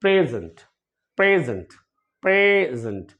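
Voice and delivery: प्रेजेंट repeated, प्रे then जेंट with no vowel between; model pronunciation. Shown as a demonstration. Teacher drills प्रेजेंट for students, repeated demo. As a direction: drill प्रेजेंट three times. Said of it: "इसे हम बोलते हैं".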